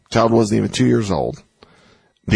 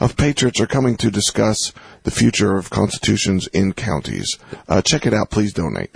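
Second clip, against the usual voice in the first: public radio host; 2 semitones lower than usual. Shown as a demonstration. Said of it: "say in an N P R voice? In a public radio voice?".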